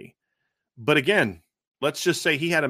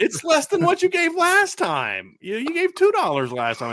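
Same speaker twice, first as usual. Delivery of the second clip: put-on grumpy old man; 4 dB louder than usual. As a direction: grumble like a stingy grandpa. Grandpa voice.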